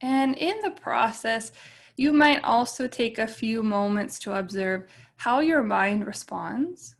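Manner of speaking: calm meditation guide with long, settling pauses; guided meditation. Real, not acted. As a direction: ease them gently into stillness, leaving space between phrases.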